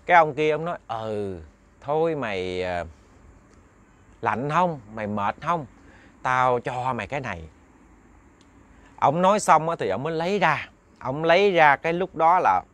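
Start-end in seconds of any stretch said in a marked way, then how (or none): 0.9-7.4 an elder coaxing gently. Acted. Old man offers gifts.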